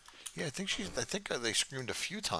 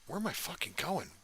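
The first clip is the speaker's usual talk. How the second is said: being chased; 4 semitones lower, 6 dB quieter than usual. Real, not acted. Fleeing zombies, lost.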